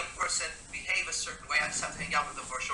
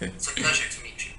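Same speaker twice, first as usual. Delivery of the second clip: soft seductive greeting; 3 semitones lower than usual. Retold or imitated. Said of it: "subtly say".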